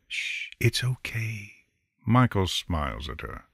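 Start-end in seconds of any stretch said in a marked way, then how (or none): 0.1-1.5 put-on soft, slow hush to a baby; soothing hush. A narrator's reading. Mother hushing her fussing baby on her lap, soft and slow. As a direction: gently settle the child with it. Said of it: "bouncing the baby on her lap gently".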